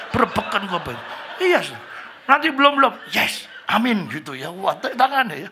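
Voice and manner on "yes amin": mock English. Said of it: "Inggris-Inggris".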